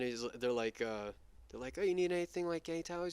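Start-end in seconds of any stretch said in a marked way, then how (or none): 1.8-3.1 high, louder solicitous question; put-on high attendant voice; imitated helpful offer. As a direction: mimic an eager helper, pitched up. Voicing staff offering more help.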